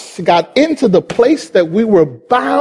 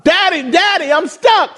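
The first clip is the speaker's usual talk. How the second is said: put-on higher, whiny little boy calling; child crying for daddy; 6 semitones higher than usual. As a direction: call for your dad, stuck. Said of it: "Son still crying".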